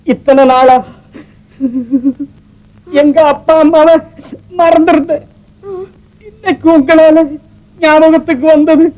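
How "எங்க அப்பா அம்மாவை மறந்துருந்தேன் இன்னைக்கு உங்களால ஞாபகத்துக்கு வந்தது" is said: tearful, choking on the words; crying. Acted. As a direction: voice breaking into tears while remembering parents. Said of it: "அழாதீங்க doctor". (அழுகையுடன் உடைந்த குரல்)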